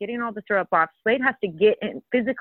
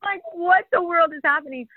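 exasperated disbelief; 9 semitones higher than usual. Retold or imitated. Disbelief at poop scene.

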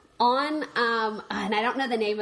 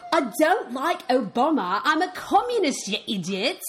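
retold activist; 5 semitones higher, 3 dB louder than usual. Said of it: "And then she goes".

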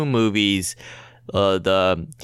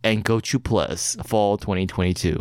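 movie trailer voice; 3 semitones lower than usual. Acted. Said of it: "in a movie trailer voice".

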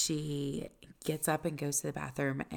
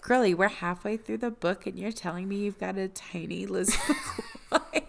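exasperated disbelief; 5 dB louder than usual. Retold or imitated. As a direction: call her out, half-laughing. Mock exasperation at book character.

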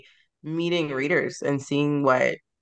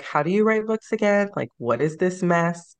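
exasperated self-doubt; 5 semitones higher than usual. Retold or imitated. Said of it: "and I'm like".

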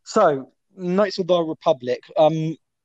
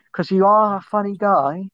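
insincere; 3 semitones higher than usual. Real, not acted. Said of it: "I didn't sound sincere there".

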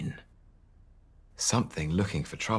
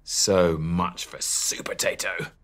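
screeched; 3 dB louder, slower than usual. Acted. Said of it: "screeched the pea".

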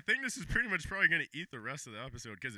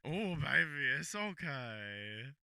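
mock soothing; much slower than usual. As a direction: coo it slowly.

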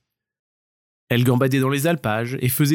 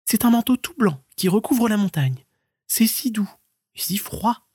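high, light storybook stoat; sweet little animal voice, lifted up high; stoat friend's voice; 9 semitones higher than usual. Acted. Stoat describing snow to the marmot, high and light. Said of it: "disait-elle".

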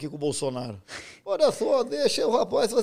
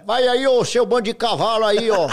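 Giovanelli impression; 5 dB louder, slower than usual. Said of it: "Ronaldo Giovanelli".

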